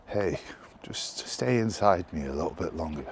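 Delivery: unvoiced whispered coaxing, playing the bed; seductive bed whisper. Bed whispering to the vlogger at six am, a coaxing whisper. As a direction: breathe it like a bed begging you to stay. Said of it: "my bed was really saying".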